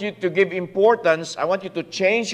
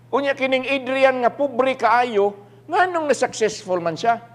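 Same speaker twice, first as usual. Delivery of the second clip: mildly indignant, raised-pitch questioning; envious complaint; 3 semitones higher than usual. Acted. A proud believer questioning poor Adrian's success, envious complaint. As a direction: pile up the baffled whys.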